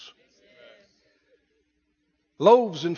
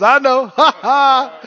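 laughing, playful; God laughing; 6 semitones higher, 11 dB louder, slower than usual. Retold or imitated. God laughing at the worried believer. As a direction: chuckle it out, delighted. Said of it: "He laughs and goes".

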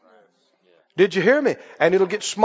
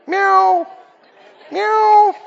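a cat begging for food; cat meows; 8 semitones higher than usual. Retold or imitated. Stray cat begging the homeowner, high meows. Preacher imitates cat again.

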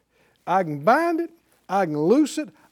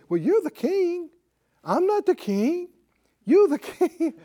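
pitched-up pleading staffer, breaking into a laugh; high whiny refusal; 9 semitones higher than usual. Retold or imitated. Staff turning down the king, whining high. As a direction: whine it, then laugh through the last word.

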